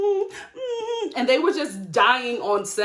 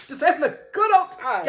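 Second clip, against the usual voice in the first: laughing through it, a bit louder; amused sarcastic echo; laughing mock repeat; 5 semitones higher, 4 dB louder than usual. Shown as a demonstration.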